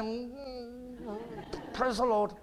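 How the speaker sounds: very soft, muffled praise; imitating a timid, held-in response; mouth not moving. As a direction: barely let the words out. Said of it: "my mouth's not moving".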